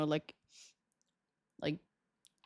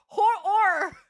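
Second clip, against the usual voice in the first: laughing pron attempt; 8 semitones higher, 5 dB louder than usual. Shown as a demonstration. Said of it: "End with or?".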